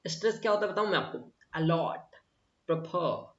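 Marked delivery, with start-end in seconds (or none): 1.5-3.3 अलॉट and प्रेफर with the push on the final syllable, लॉट and फर; final syllable stressed in अलॉट, प्रेफर; stress on last syllable. Shown as a demonstration. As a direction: lean on the end of अलॉट and प्रेफर. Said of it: "last में र पे देखो एक pressure आ रहा है".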